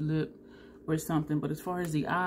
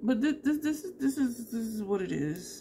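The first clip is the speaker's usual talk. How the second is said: pitched-up stuttering, repeating the same words; 6 semitones higher than usual. A speaker reviewing a makeup shade, stuttering. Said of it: "Yep, I'm stuttering".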